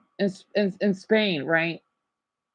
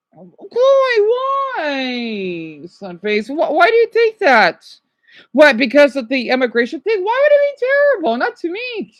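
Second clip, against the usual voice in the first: clip audio; 6 semitones higher, 4 dB louder than usual. Acted. Played video clip voices.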